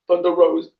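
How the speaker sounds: words with a burp; burp while talking. Real, not acted. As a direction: burp through the name. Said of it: "Sorry, I burped".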